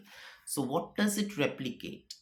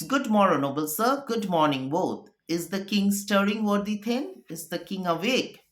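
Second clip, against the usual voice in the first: raised, declaiming stage voice, a little higher; Shakespeare recitation; 6 semitones higher, 4 dB louder than usual. Acted. Teacher reading Lennox's lines to the class, lightly declaimed. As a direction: read Lennox's greeting as a courtly nobleman.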